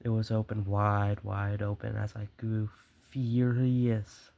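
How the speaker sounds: dramatic, measured storyteller's read; story narration. A narrator's reading. Murderer confesses his careful nights to the listener, story narration. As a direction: read the tale with relish.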